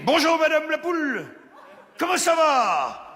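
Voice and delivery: bright high greeting to a hen; sing-song greeting to hen. Acted.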